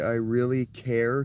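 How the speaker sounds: "I really care" slow and stressed; careful emphasis try; emphatic slow phrase. Shown as a demonstration. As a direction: lean on each word. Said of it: "don't know how to do the emphasis".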